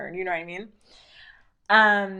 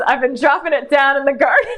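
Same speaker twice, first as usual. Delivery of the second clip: louder, high, fast laughing read; reading chat laughing; 7 semitones higher, 10 dB louder, faster than usual. Retold or imitated. Reading Noguchi's chat aloud, laughing hard. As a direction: shriek the chat line through laughter. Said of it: "Noguchi says".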